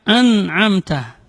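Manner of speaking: "an'amta" with n bleeding into the a; "an'amta" starting through the nose; nun mixed in. Shown as a demonstration. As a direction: nasalise the opening of "an'amta". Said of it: "tidak boleh bercampur dengan nun".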